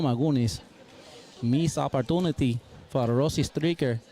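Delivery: put-on light Mexican-accented play-by-play, lively; a touch of a Mexican sportscaster calling each shot; Mexican commentator. Co-host as Perrito calling the match, light Mexican accent. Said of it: "I'll bring on the Mexican commentator".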